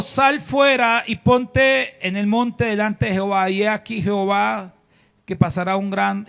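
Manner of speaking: God ordering Elías out of the cave; commanding call. Acted. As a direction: call it out like a voice from heaven. Reading God's command.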